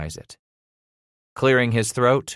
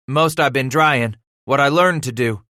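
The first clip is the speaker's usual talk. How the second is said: put-on raised, louder boy's voice; defensive boy; 5 semitones higher, 5 dB louder than usual. A narrator's reading. Son explaining to angry father, defensive. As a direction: justify yourself nervously.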